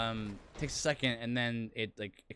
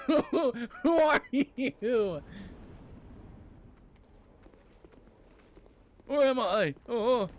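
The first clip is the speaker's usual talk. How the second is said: hammed-up bewildered voice, much higher, louder, slow; mock confused; 12 semitones higher, 7 dB louder, slower than usual. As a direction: play a dazed, lost character for laughs. Jokey dazed confusion, laughing.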